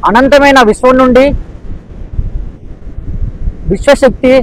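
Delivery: measured meditation affirmations with long pauses; guided meditation. Acted. Meditation teacher voicing affirmations for practitioners to feel, measured guided meditation. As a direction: lead them phrase by phrase, pausing long between.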